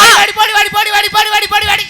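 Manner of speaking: loud, high jeering போடி, போடி hammered again and again; mock-fierce stage yelling of போடி; taunting shout. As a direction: shout போடி at her over and over, pitch up. Heated quarrel, taunting the woman.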